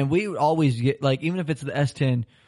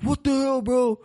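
out of breath; 9 semitones higher, slower than usual. Retold or imitated. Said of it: "like, out of breath".

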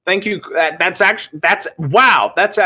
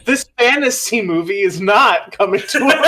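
laughing; 5 semitones higher, faster than usual. Real, not acted. Laughing at own joke.

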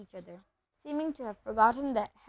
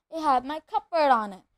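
angry; 4 semitones higher, 5 dB louder than usual. Acted. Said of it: "said Harry angrily".

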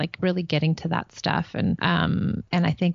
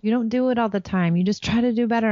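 reassuring; 4 semitones higher than usual. Retold or imitated. Best friend reassuring her after yelling.

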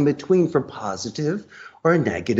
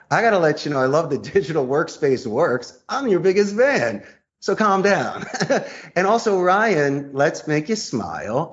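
upbeat charm; 5 semitones higher than usual. Shown as a demonstration. Calming an angry receptionist.

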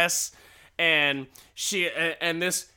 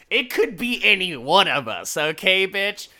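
retort; 6 semitones higher, 7 dB louder than usual. Retold or imitated. Husband snapping back.

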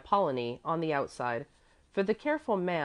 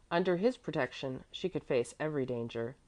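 ordinary delivery, nothing marked

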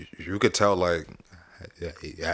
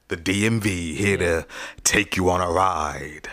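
slow, drawn-out movie announcer read; slow, weighty movie-trailer announcer selling the podcast slogan; slower than usual. Shown as a demonstration. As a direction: sell it like a film trailer. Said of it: "That was my movie voice".

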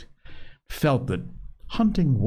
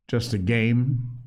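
uneasy; 4 semitones higher than usual. Acted. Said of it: "said Ralph uneasily".

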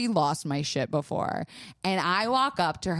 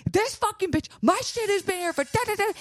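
retold angry rant; 14 semitones higher than usual. Retold ranting.

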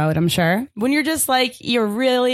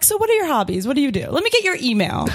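eager hobby questions; 3 semitones higher than usual. Retold or imitated. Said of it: "asking people, like".

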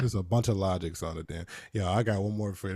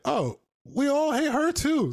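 mock sarcastic; slower than usual. S2 acts out a mocking reply.

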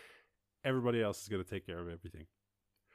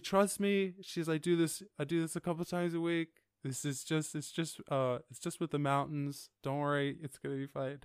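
higher, lightly voiced calm hostess; soothing air hostess; 5 semitones higher than usual. Air hostess calming a scared passenger, lightly voiced. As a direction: reassure her in a sing-song. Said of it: "And she's like".

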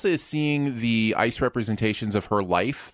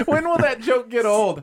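laughing; 10 semitones higher than usual. Real, not acted. Laughing shout.

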